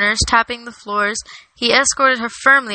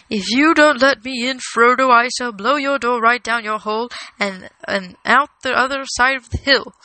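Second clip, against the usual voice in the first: lightly voiced commanding wizard; a hint of an impatient old wizard at the window; threatening Gandalf; 2 semitones higher than usual. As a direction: deliver a mild blustering threat.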